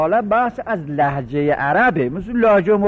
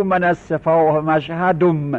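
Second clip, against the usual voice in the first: put-on slow teasing Mashhadi accent, ending «مشهدم» in -dum; لهجهٔ مشهدی; slower than usual. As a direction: imitate a Mashhadi, rounding the last vowel to u. (با لهجهٔ مشهدی، کشیده، «مشهدُم»)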